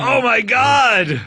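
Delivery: slow, high, stunned oh my God; high shocked gasp. Acted. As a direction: drag it out, astonished and high.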